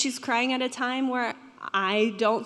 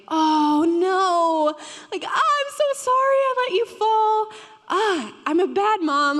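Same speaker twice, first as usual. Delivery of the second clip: much higher and louder, a distraught imitated apology; guilty apology; 8 semitones higher, 5 dB louder than usual. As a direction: beg the fallen baby's forgiveness in a rush of guilt. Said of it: "that guilt".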